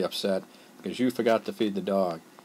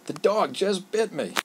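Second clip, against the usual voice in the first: much higher, slow cry of alarm; alarmed exclamation; 10 semitones higher, slower than usual. Shown as a demonstration. Teacher showing an exclamatory sentence, alarmed cry. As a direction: say it like you just got bitten. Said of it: "expresses strong emotion".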